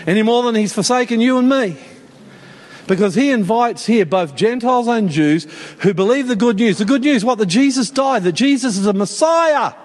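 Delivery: insistent, driving sermon delivery; emphatic preaching. Real, not acted. Preacher expounding the good news to Gentiles and Jews, insistent preaching. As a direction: press the good news home with rising force.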